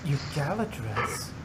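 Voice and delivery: surprised. Acted. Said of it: "Rarity gasped in surprise".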